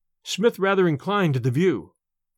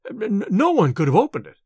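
lightly voiced stutter on the N, a touch of fear; nervous stammer; 2 semitones higher than usual. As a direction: trip over the first word, mildly scared. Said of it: "he stammered".

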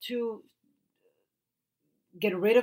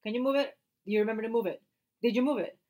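insistent repeated asking, imitated; mock nagging; 4 semitones higher than usual. Wife imitating husband asking repeatedly, mock nagging. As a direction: keep pestering, each question more pressing. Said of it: "he will ask you twenty-five times".

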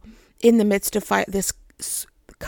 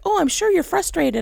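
higher-pitched, sympathetic phone lady; sweet and kind; 7 semitones higher than usual. Retold or imitated. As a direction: imitate a kindly customer service woman. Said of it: "so sweet and so kind".

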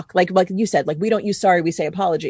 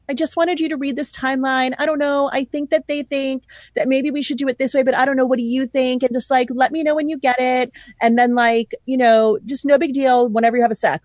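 higher, hesitant mock-meek email voice; timid unsure tone; 5 semitones higher than usual. Wedding planner mocking a timid email to clients, higher and hesitant. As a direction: imitate a pushover who apologizes for asking. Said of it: "if I send emails in that tone".

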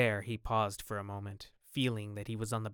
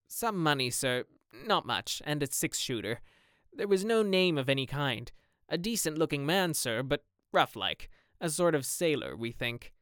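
gamekeeper voice; 3 semitones higher than usual. Acted. Gamekeeper describes the body.

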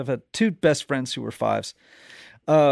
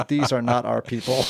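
straight-faced, lower-pitched deadpan line; 3 semitones lower than usual. Retold or imitated. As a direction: drop the line with no expression at all. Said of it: "Just a straight face".

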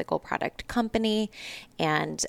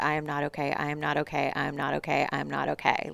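repeating evenly like a stuck loop; faster than usual. Retold or imitated. Retelling her breakdown while driving, stuck in a loop. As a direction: say it over and over without variation. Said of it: "in this, like, stuck loop".

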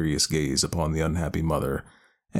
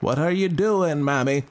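put-on a changeling speaking like an old man; 10 semitones higher, 4 dB louder than usual. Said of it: "with a voice of a very old man".

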